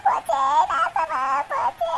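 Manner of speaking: sobbing lament, trailing down low and slow; tearful dropping wail. Acted. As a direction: wail that her daughter's life is ruined. Mother wails over ruined daughter.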